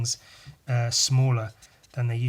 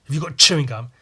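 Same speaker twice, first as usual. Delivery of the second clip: stern teacher; 7 dB louder, faster than usual. Retold or imitated. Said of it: "She looked at me and goes".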